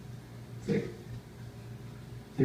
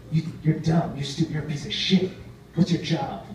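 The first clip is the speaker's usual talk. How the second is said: imitated confrontation, raised pitch; angry insults; 4 semitones higher, 3 dB louder than usual. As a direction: throw mock insults in someone's face. Acted angry confrontation over stolen pizza.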